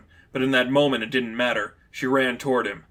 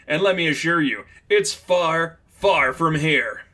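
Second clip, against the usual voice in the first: smug villain taunt; 4 semitones higher, 3 dB louder than usual. Acted. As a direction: gloat at the heroes from far away. Villain taunts through remote drone.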